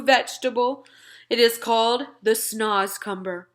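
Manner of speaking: put-on friendly giant talking to a little girl; BFG giant voice. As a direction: play the big friendly giant, earnest and muddled. BFG voice held in dialogue.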